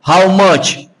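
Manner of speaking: "much" ending in "tch"; CH with T sound. Shown as a demonstration. Teacher shows how the final letters sound, CH with T sound. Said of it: "C H te dá som de T".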